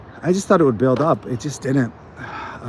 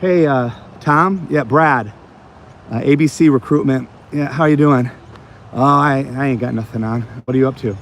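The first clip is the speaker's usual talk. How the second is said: casual buddy tone; 2 semitones higher than usual. Retold or imitated. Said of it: "I just started talking like I knew 'em already".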